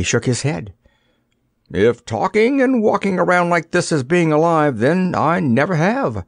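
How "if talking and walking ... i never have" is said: higher-pitched, emphatic declaration; positive, assertive. A narrator's reading. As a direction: state it firmly, drawing out the end. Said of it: "said the dummy positively".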